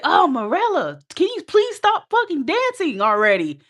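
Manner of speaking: high, loud mocking rant with laughs; mock angry guy. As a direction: ham up an annoyed gym bro telling her off. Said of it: "he goes off on you and he's like".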